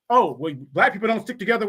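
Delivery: fast, dismissive parody voice; mocking quote. Host mimicking critics of black people, quick mocking voice. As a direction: toss off the claim in a put-on sneering voice.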